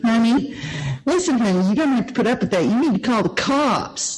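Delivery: imitated receptionist. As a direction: mimic a receptionist counselling a caller. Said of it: "she'll talk to people who call".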